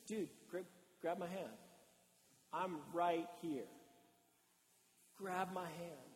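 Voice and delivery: steady a panicking friend; quietly reassuring, with pauses; calm reassurance. Acted. Jesus calmly reassures sinking Peter.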